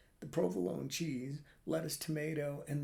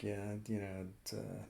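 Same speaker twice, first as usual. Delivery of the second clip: hushed stoner voice; 4 semitones lower, 6 dB quieter than usual. Retold or imitated. Stoner leaning in to his friend, hushed whisper. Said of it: "He's like".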